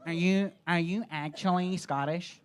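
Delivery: lightly mimicked American questioner; American accent impression, incredulous question; mock American accent. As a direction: ask like an American tourist, gently mocked. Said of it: "it's Americans asking me if I'm Scottish".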